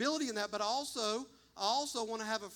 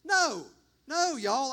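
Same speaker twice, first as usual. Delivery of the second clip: sharp, louder no, higher up; emphatic no; 4 semitones higher, 8 dB louder, slower than usual. Real, not acted. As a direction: cut them off with a strong no. Preacher stressing new creation.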